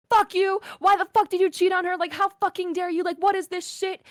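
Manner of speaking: high-pitched imitated telling-off; sister's tirade. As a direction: act out an outraged sister yelling. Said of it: "All you hear is my sister going".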